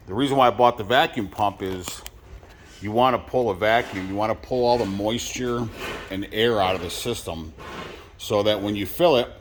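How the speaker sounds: talking around a dip; lip full of dip. Real, not acted. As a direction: mouth full of tobacco. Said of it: "sorry, I got a dip in my mouth".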